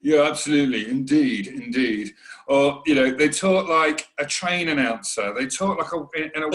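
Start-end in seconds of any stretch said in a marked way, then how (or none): 0.0-2.1 mocking corporate agreeing. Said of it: "taking the mick out of it".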